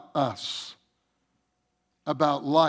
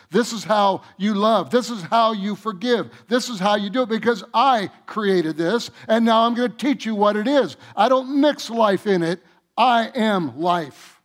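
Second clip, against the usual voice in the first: preaching at full force, higher and louder; voicing God; 4 semitones higher, 6 dB louder than usual. Preacher voicing God to the congregation, full-force preaching. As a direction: thunder it out as God speaking. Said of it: "He literally".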